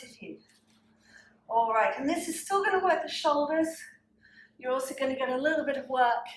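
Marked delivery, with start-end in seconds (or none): 1.5-6.3 slightly winded while talking; out of breath. Real, not acted. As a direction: talk a bit breathless after exercise. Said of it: "I'm slightly out of breath".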